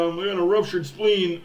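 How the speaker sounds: a hint of a whiny player, "ruptured" falling; mock injured player. Fan mimics player claiming ruptured spleen, mild whine.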